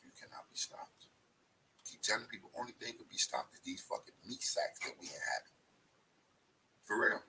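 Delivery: hushed intensity. Real, not acted.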